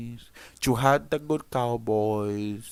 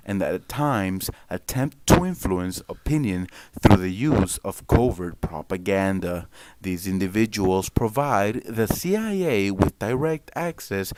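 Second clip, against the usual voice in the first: news anchor voice. Acted. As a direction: read it like a TV anchor. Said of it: "my anchor voice".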